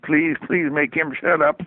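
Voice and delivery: a slow whispered plea to the heavens; mock prayer. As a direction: plead under your breath, slowly. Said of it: "I'm kinda making a little prayer".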